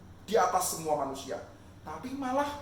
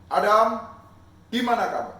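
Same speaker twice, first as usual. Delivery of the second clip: calling out; 3 semitones higher, 14 dB louder than usual. Acted. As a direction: call across the garden, long and loud. God calling Adam again.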